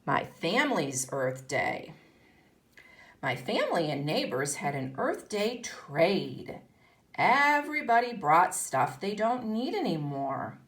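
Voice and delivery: put-on lively read-aloud for young pupils; story reading. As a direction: read it like a picture book to a class. Continues reading the book.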